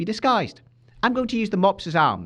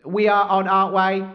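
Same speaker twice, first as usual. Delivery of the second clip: robot voice; 4 dB louder than usual. Pretend. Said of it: "your robot voice could do with some work".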